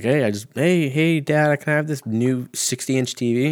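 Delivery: hint of a child pestering a parent for something; imitated kid asking Dad. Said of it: "like, kids and they're like".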